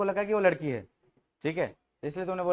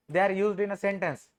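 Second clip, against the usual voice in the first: slow teaching phrase; much slower than usual. Shown as a demonstration. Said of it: "word की शुरुआत capital letter से".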